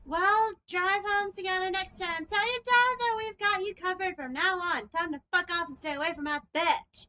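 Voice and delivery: put-on sassy girl telling off the dad; high sassy voice. Friend mocking an absent dad, sassy high voice.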